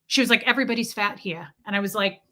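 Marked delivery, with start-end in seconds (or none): 0.4-1.5 imitated New York woman; lightly put-on New York accent, dropped R's. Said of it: "she sounded like my Russian doctor".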